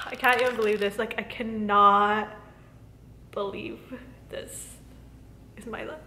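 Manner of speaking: choked up with real gratitude, dropping almost to nothing; overwhelmed, tearful hush; teary, fading to near silence. Real, not acted. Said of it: "I think I'm getting teary".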